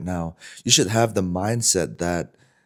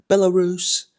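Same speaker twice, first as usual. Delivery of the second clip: lightly voiced girl, pitched up; higher girl's voice; 11 semitones higher than usual. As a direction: answer as a bubbly young woman.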